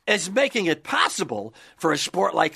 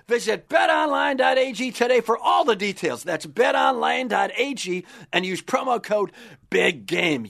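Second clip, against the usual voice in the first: hyped-up radio ad read; booming prize announcer; 3 semitones higher than usual. Acted. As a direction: sell the prize like a game show.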